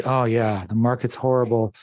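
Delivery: ordinary talk, nothing marked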